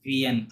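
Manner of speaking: "ভিএন" with one N sounded, ending silent; silent-ending pronunciation. Shown as a demonstration. Teacher confirms the silent ending to student, pronunciation demo. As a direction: say "ভিএন", last letters silent after the N. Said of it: "ও এন তে silent".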